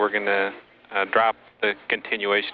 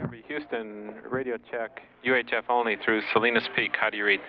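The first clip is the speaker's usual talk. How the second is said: quiet, distant radio call; faint radio; 3 dB quieter than usual. Real, not acted. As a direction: sound far off over weak radio. Repeated UHF check, fainter line.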